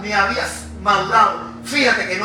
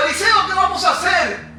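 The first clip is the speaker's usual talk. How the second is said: frightened; 10 semitones higher than usual. Acted. Frightened servant calls to master.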